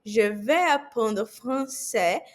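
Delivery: "Je vais apprendre français..." frase inteira devagar; slow full sentence. Shown as a demonstration. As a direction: junte tudo com calma. (frase completa pausada)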